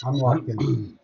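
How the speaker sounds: slow, laughing repeat. Real, not acted. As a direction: chuckle it out slowly. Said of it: "laughs repeat".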